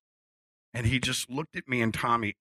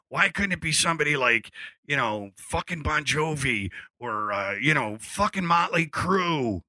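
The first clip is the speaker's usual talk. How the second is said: imitating comedian; 4 semitones higher than usual. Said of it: "he does this whole skit".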